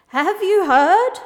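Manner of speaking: high, loud, drawn-out bleat; baaing sheep. A narrator's reading. Sheep bringing news to the owl, baaing loudly. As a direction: stretch it like an excited sheep. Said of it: "baaed a sheep".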